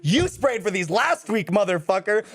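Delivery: mock-furious inner rant; inner fury. Guest silently cursing out the lying hotel clerk, mock fury.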